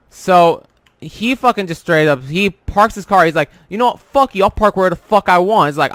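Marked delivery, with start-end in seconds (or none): 3.7-5.7 retold defiant outburst; mouthing off. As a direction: imitate someone mouthing off, mildly heated. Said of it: "Just mouthing off".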